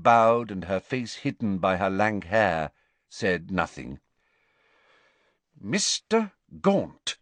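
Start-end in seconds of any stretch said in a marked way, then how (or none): 5.6-7.2 dogged. A narrator's reading. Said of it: "said Ogden doggedly".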